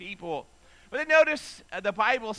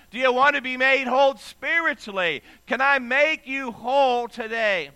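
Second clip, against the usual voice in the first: earnest plea; 3 semitones higher, 5 dB louder than usual. Retold or imitated. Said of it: "Jesus was asking him this".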